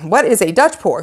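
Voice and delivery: loud, exaggerated baffled question; acted-out puzzlement. Painter retelling her first frantic Google search, loudly puzzled.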